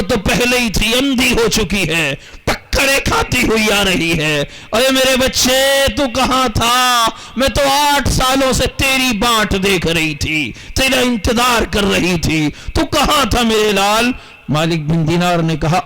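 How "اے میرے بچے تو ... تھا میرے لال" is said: mother's longing. Acted. Blind mother greets her son.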